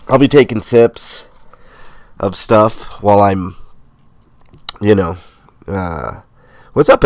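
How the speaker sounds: blocked nose from a cold; nasal sick voice. Real, not acted. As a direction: talk through a stuffy nose. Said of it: "excuse the nasally voice today".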